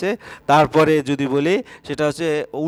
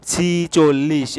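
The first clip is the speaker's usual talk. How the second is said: slow careful word; much slower than usual. Shown as a demonstration. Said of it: "এভাবে লিখি".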